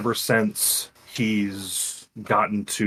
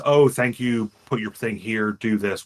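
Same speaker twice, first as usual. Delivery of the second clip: lightly voiced robotic monotone. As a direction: stiff automated system voice. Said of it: "like a robotic voice".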